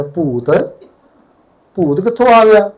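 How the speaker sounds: amused disbelief. Retold or imitated. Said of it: "गुरुजी फिर हंसने लगे".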